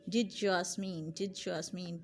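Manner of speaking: "Did यास्मीन" said slowly with d and y merging into a j sound; slow blend of did and Yasmeen. Shown as a demonstration. Teacher slowly sounding out did yasmeen for class. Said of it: "यास्मीन की जगह यहाँ did".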